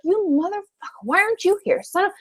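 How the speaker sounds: high, mild mock outburst; a hint of furious grief, voiced softly; retold anger. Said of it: "and I was angry".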